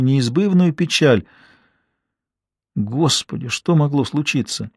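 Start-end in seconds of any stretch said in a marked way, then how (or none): none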